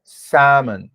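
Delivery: Salmon with a silent L, said samon; model pronunciation. Shown as a demonstration. Teacher models the correct English word for students, slowly and clearly. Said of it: "como é a forma correta de pronunciar essa palavra".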